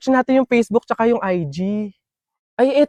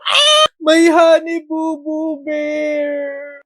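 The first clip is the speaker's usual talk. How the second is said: whimpering; slower than usual. Acted. Crying to partner.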